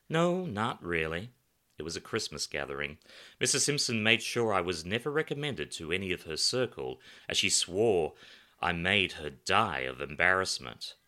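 a hint of a brash New Yorker; loud, animated storyteller voice; lively raconteur. Pedro voiced.

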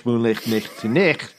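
put-on slow, rolled Scottish brogue on the old saying; Scottish accent. Son of a Scot showing off his only Scottish phrase in a Scottish accent. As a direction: savour the Scots words like your dad would. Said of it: "the only remnant of that in me is I can say".

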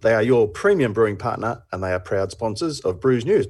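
upbeat sponsor read; lightly voiced sponsor message. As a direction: sell it like a radio ad.

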